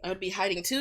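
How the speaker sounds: hiccups. Real, not acted. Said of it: "I literally got the hiccups".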